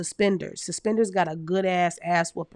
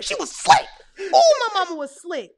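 laughing; 10 semitones higher, 7 dB louder than usual. Real, not acted. Laughing about mom's tricks.

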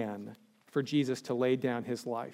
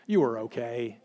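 mock patronizing; 2 semitones lower than usual. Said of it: "It's so patronizing".

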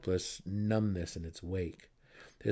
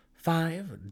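higher, louder bitter count; growing anger; 9 semitones higher, 4 dB louder than usual. Acted. Brother counting days at his sister, getting angry. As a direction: let the irritation rise. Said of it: "his anger growing".

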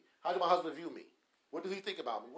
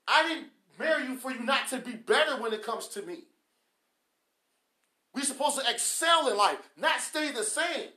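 raised, forceful spouse's reply; insistent retort; 3 semitones higher, 6 dB louder than usual. Acted. Spouse answering a partner who won't change, insistent retort. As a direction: insist loudly, punching the key words.

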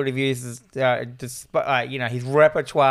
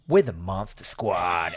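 put-on proud kid hero; 8 semitones lower, 3 dB quieter, slower than usual. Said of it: "and goes".

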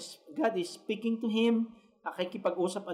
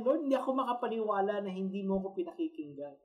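pleading prophet; 4 semitones higher than usual. Retold or imitated. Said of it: "Kaya nga sabi niya ganun".

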